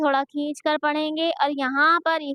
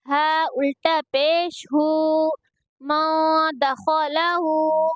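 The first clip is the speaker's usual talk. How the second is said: slow, level-pitched syllable chant; measured qaida recitation for learners to copy; Quranic spelling drill; much slower than usual. Shown as a demonstration. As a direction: spell out each syllable with drawn-out vowels.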